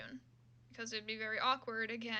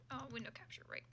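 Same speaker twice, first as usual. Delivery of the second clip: whisper to self; 3 semitones higher, 6 dB quieter, much faster than usual. Real, not acted. Muttering while clicking through menus.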